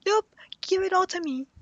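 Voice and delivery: snatch it all for yourself, playfully; imitated greedy demand; mock greedy grab. Voicing the selfish character grabbing food.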